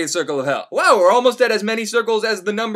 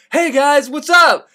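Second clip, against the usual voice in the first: fake-friendly greeting; 7 semitones higher, 5 dB louder, slower than usual. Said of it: "Virgil's like".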